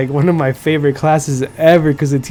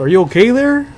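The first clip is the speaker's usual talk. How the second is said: teacher's catchphrase, pitched way up; mock teacher voice; 7 semitones higher, 3 dB louder than usual. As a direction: lightly mimic the airheaded teacher, higher.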